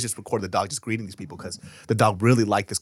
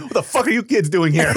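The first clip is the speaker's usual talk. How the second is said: mock grumpy, laughing; 7 semitones higher, 3 dB louder than usual.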